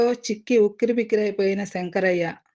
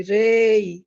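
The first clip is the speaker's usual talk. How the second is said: sharp, louder roaring cry; woman's roar; 5 dB louder, much slower than usual. A narrator's reading. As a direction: roar it out like a furious crowd. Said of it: "ఓ ఆడదాని గొంతు గర్జించింది".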